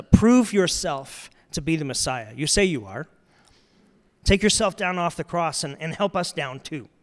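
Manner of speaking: mocking tone. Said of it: "Mocking in tone".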